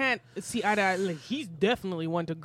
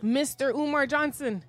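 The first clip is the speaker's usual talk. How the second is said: mock scolding; 4 semitones higher than usual. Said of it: "I'm gonna strip you of that".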